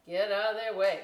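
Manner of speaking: loud mock shout to get out of the way; playful loud exclamation; mock yell. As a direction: shove past them, loudly. Mocking crazy happy students.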